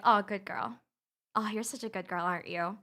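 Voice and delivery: doting dog praise. Retold or imitated. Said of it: "To, to, like, my girl".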